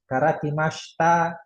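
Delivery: Karakimashita ending in "mashta"; silent i. Shown as a demonstration. Teacher demonstrating a set phrase, silent i. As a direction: drop the i after sh in Karakimashita. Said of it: "I-nya nggak dibaca".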